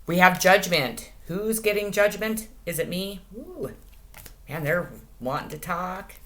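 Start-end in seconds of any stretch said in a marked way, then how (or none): 3.3-3.7 high soft ooh. Real, not acted. Reacting to a card.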